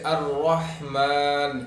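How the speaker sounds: careful Quranic teaching of الرحمن; big ha demonstration. Shown as a demonstration. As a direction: draw out الرحمن with a strong breathy big ح. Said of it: "یہاں پہ بھی بڑی ہا ہے".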